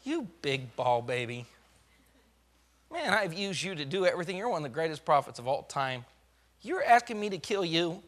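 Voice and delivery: God ribbing Elijah in his still small voice. Retold or imitated. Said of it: "what God said in that still small voice".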